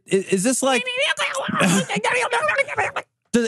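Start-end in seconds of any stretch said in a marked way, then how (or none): 0.9-3.0 high squealing gremlin giggle; gremlin cackle. Pretend. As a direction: cackle like a giggly little imp. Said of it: "That's my gremlin impression".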